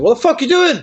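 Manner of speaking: high, loud indignant demand; angry boss. Retold or imitated. Chrissy catching him smoking, high indignant.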